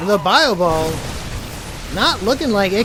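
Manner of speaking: loud, emphatic caster call; excited commentary. Real, not acted. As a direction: keep the hype up. Casting the fight.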